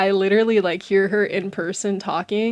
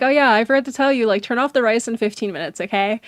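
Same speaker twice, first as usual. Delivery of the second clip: quick, louder offhand reminder; imitated mom; 3 semitones higher, 7 dB louder, faster than usual. Mom calling to say turn off rice, lightly imitated. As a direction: rattle it off like a parent leaving. Voices mom's casual late reminder.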